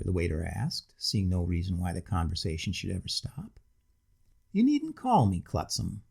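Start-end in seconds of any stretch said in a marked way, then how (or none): 4.5-6.0 high sing-song, words rushed together; tipsy sing-song, rushed. Acted. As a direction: lilt it and run the words together. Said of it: "in a sing-song voice, and rushing the words together".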